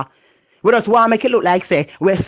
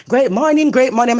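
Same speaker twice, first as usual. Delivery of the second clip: imitating a too-cheery morning greeting, raised pitch; mock loud morning greeter; 5 semitones higher than usual. Mocking the noisy morning person, chirpy greeting. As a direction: chirp it like the noisy one who wakes you. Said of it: "she make too much noise".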